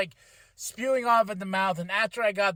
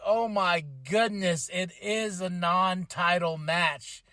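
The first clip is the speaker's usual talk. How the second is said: slow realisation; 2 semitones lower, slower than usual. Retold or imitated. Retelling his dismayed realisation.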